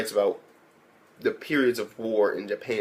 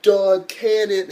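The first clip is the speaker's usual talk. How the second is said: slow attack call; 7 semitones higher, 5 dB louder, much slower than usual. Retold or imitated. Character yells attack name.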